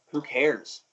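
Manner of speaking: offhand retold "who cares"; casual brush-off; dismissive. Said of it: "I was like".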